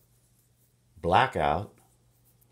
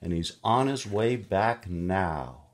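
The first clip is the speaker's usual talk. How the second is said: lady grocer on phone; 4 semitones higher, 5 dB louder than usual. Acted. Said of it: "And she says".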